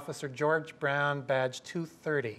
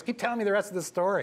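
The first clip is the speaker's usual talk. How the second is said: mocking cop; 6 semitones higher, faster than usual. Cop mocking, wants more.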